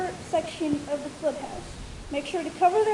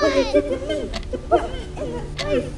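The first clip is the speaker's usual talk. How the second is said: haunted accusation; 8 semitones higher, 4 dB louder than usual. Acted. Possessed filly accusing unseen force.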